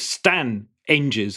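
"Stan Enges" slowly, with no H; no H sound. Shown as a demonstration. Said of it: "There's no H in there".

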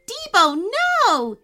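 loud alarmed call to the dog; a frightened boy yelling at his dog to stop. Acted. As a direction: shout his dog's name in alarm. Boy calls dog off skeleton.

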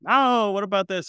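high eager asking; high eager question. Retold or imitated. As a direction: pitch it up eagerly. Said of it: "And I'm like".

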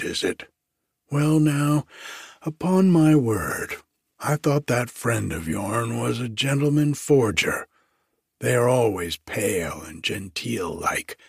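lightly voiced jailer's gossip, amazed; astonished grub man. Grub man musing to the lawyer about forgers, amazed.

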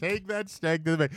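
amused slogan echo; repeating the slogan. Retold or imitated. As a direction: try the catchphrase out, amused. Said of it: "should be the marketing campaign".

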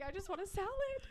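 high, small mock-tearful whine; retold bawling. Wife pleading over dinner choice, mock tearful. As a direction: whine it like you're crying, lightly acted. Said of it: "Started bawling".

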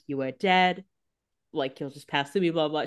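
imitating a patient, measured explanation; calm rote speech, low-key. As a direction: deliver bad news evenly, softening as it tails off. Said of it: "very calmly being like".

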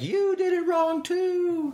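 very high, drawn-out falsetto taunt; high, slow mocking squeal. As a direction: stretch it out in a silly high-pitched jeer. Mock taunting phone call to rival.

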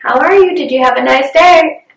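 a hint of a chirpy mother on the phone; lightly voiced mom. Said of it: "my mom was like".

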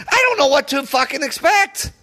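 exasperated, pitch climbing; voice going high. Real, not acted. Fan losing it over his team, voice rising high. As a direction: let the frustration push the voice up. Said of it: "My voice is getting so fucking high".

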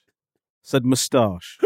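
slow moustache with short a; defensive correction. Shown as a demonstration. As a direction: spell out his real moustache. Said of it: "I didn't say moustache".

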